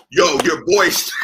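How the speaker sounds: mock-tearful exclamation; hammed-up emotional shout; demonstrated manly reaction. Shown as a demonstration. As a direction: blurt it out as a mock choked-up compliment. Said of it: "You gotta say it like this".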